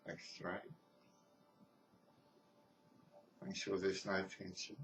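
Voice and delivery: calm, measured meditation guidance with long pauses; guided meditation. Real, not acted. Teacher leading listeners through breath and body scan, guided meditation. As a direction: talk them gently through each step, leaving space between phrases.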